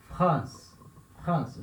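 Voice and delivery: 'France' with the R gargled after the F; throat R in French 'France'. Shown as a demonstration. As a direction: gargle the R lightly inside 'France'. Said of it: "Fazendo um gargarejo".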